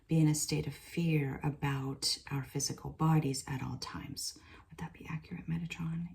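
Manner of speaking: hushed, breathy channeling whisper. Real, not acted. Asking Metatron questions in a hushed whisper. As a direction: keep it all in a reverent whisper.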